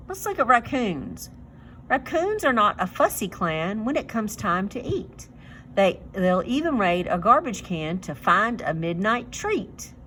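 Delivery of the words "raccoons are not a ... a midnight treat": reading a poem. Acted. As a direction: read it like a children's rhyme. Reads poem to children.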